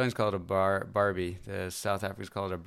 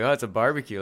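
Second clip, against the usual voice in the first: loud, higher mock cheerful American; mock naive American; 3 semitones higher, 6 dB louder, faster than usual. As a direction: play the clueless guest proudly announcing. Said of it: "and you're like".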